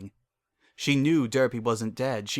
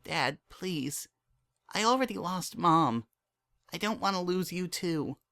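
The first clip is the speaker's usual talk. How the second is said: put-on higher young girl's voice, pleading; a daughter talking her father round; raised, girlish voice asking him to explain; young filly Dinky; 7 semitones higher than usual. A narrator's reading.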